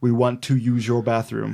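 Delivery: deliberate, even, monotone request; monotone kid. Acted. Host voicing the kids at the door, monotone. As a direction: keep it level and clearly spoken. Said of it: "often in a monotone voice".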